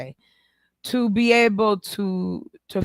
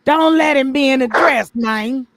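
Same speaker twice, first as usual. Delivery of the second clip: imitating Dwayne Wade; 4 semitones higher, 4 dB louder, slower than usual. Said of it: "he sat there and was like".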